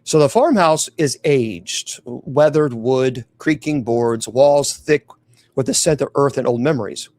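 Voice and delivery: measured, suspenseful storytelling; scary story narration. A narrator's reading. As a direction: narrate a dark tale, pausing between phrases. Reads a scary tale.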